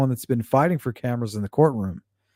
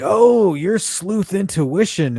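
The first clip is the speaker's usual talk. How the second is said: mocking gotcha voice; 7 semitones higher, slower than usual. Imitating the host unmasking the caller, mock triumphant. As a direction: play the smug host catching him out. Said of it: "And then he was like".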